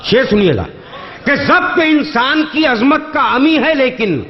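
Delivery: measured, lingering verse delivery; poetry recitation. Acted. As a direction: recite each line slowly for effect. Mushaira couplet recital.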